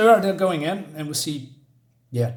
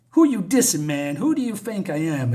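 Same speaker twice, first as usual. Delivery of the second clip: aggressive street voice. Acted. Perp challenges junkie.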